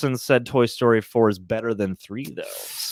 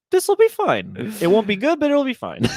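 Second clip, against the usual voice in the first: a hint of Rocket Raccoon; 8 semitones higher than usual. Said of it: "I was like".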